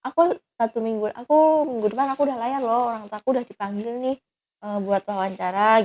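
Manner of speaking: mildly excited quote of good news; retold happy news. Boyfriend telling her he will sail soon, mildly excited. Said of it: "dia seneng".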